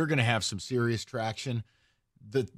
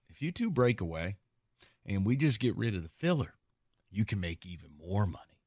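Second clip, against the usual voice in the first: low, soft, acted secret proposal; conspiratorial murmur; 6 semitones lower, 7 dB quieter than usual. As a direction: tempt them quietly, dropping softer toward the end. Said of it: "someone's gonna whisper into their ear".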